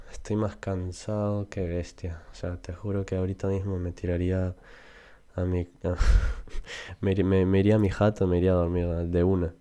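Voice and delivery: casual Peruvian Spanish, rattled off quickly at the end; Peruvian Spanish slang. Shown as a demonstration. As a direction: show off a relaxed Lima street accent. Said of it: "in Peru, for example, we can say".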